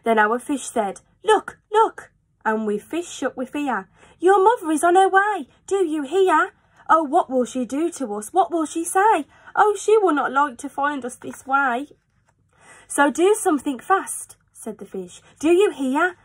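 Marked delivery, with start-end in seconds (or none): 1.2-2.1 high, alarmed fish cry; a fish sounding the alarm. Acted. Fish in the pot warning the children, high and alarmed. Fish spots mother coming. 4.2-11.9 high, alarmed fish cry; a fish sounding the alarm. Acted. Fish in the pot warning the children, high and alarmed. Fish panics about mother. 12.9-14.4 high, alarmed fish cry; a fish sounding the alarm. Acted. Fish in the pot warning the children, high and alarmed.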